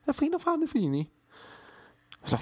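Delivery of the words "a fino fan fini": mock Italian gibberish.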